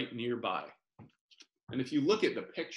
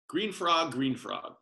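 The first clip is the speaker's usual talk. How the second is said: calling out; 5 semitones higher, 3 dB louder than usual. Acted. Calling to the frog.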